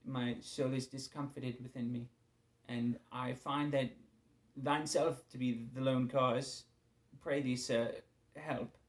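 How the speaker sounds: a hint of a stiff courtly petitioner; lightly put-on archaic politeness, unhurried; mock-royal address to God, understated; overly formal prayer. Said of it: "in a perfect world, I'd say".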